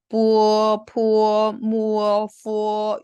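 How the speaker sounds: 뿌어, 푸어, 무어, 푸어 firmly held on one level note; eu-and-o version. Shown as a demonstration. Teacher recaps the four labials, rounded held 뿌어, 푸어, 무어, 푸어. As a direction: round and stretch 뿌어, 푸어, 무어, 푸어. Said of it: "으하고 오 버전으로 읽어준다".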